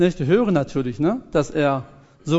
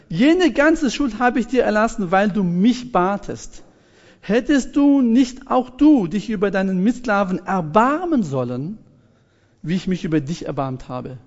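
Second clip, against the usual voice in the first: higher, emphatic mild scolding; stern royal rebuke; 4 semitones higher than usual. Acted. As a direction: reproach him like an indignant king. King scolds the wicked servant. (mit leicht empörtem Nachdruck tadelnd)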